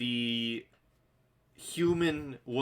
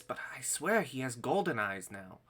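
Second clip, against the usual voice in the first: higher, jumpy halfling voice; frightened little halfling, voice pitched up; startled halfling; 6 semitones higher than usual. Acted. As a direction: blurt it out like a spooked halfling. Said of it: "halfling kinda jumps back a little bit and says".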